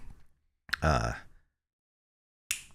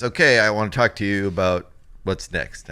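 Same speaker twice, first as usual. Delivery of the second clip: louder, lightly voiced father; dad opening a talk; 7 dB louder than usual. Dad raising his youngest son's future, louder and businesslike. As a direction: imitate a dad calling the meeting to order.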